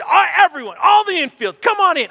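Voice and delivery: high, loud call across the field; coach calling out. Retold or imitated. Angry coach calling his infield to the mound, shouting. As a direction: summon the team like an annoyed coach.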